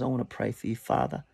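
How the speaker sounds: soft, hushed pastoral prayer; quiet spoken prayer. Real, not acted. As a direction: pray gently over the listeners. Leads a closing prayer.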